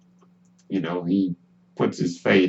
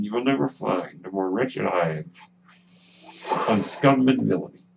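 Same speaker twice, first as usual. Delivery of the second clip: Obi-Wan Kenobi impression. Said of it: "a terrible Obi-Wan Kenobi impression".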